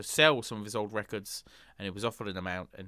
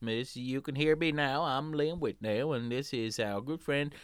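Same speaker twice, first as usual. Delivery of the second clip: put-on country accent. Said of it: "we're getting a little bit country".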